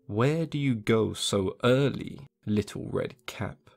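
slow, sly wolf greeting; lightly voiced sly wolf; wolf's slow voice. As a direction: draw it out like a wolf sizing her up. Wolf greets girl in wood.

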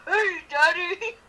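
slow, low mock grown-up voice; deep puberty voice. Answering the baby voice, a slow low mock grown-up voice. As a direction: drag it out, gruff. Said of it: "he instantly hit puberty".

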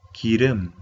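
기름 ending on a closed-mouth m; closed-lip final sound. Shown as a demonstration. Teacher models a new Korean word, closed-lip ending on 기름. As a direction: say 기름, closing the lips on the last sound. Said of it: "cerrando la boca".

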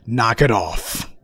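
stern command. Retold or imitated. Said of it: "you're being told".

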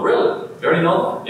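high, disbelieving question; shocked surprise. Acted. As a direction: ask it in astonished disbelief, voice jumping up. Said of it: "they're shocked and surprised and going".

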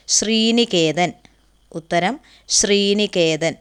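each syllable drawn out slowly for note-taking; slow dictation. Shown as a demonstration. Teacher to class, giving the answer slowly. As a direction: say the answer slowly so students can write it. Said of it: "teacher dictating the answer".

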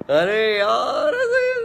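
high, slow flustered "arre yaar". Real, not acted. Singer reacting to a fan's loving comment, high and flustered. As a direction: caught off guard by a sweet comment, gush it out. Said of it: "ऐसे प्यार से बोलते हो यार".

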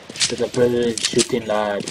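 light mock Scottish accent. Gamer repeating his line about brilliant shooting, light Scottish accent. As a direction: try on a Scottish lilt lightly. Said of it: "Scottish accent".

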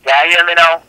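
slips into put-on Jamaican patois; Jamaican accent. Scammer proving he's Jamaican on the phone, put-on Jamaican accent. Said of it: "You want me to talk like a Jamaican?".

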